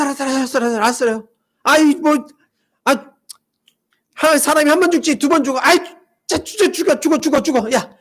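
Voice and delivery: reluctant, sulky grumble; grumbling sarcasm. Retold or imitated. Thomas grumbling to fellow disciples, mildly sarcastic. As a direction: grudgingly go along, muttering. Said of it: "이런 뉘앙스가 들어가 있는 거예요".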